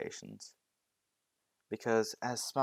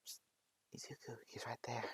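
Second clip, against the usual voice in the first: hushed secret whisper, much softer; 14 dB quieter than usual. Acted. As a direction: tip him off without a sound. Plants secretly tip off hero.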